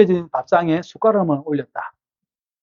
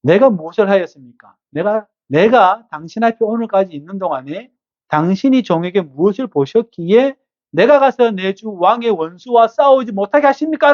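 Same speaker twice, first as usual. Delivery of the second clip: David protesting; 2 semitones higher than usual. Acted. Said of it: "그 항변 내용이 이렇게".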